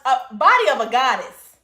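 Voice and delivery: "goddess" said with weight, set apart from God; stress on goddess. Shown as a demonstration. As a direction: lean on "goddess". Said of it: "I said goddess".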